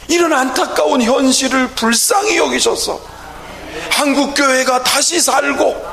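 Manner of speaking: earnest prayer. Shown as a demonstration. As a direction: plead with God in insistent rising phrases. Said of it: "얼마나 간절해지고".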